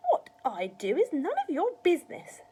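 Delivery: put-on loud, high old-woman retort; snappish rebuke. A narrator's reading. Grandma answering George's nosy question, snappish rebuke. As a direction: tell the boy off sharply.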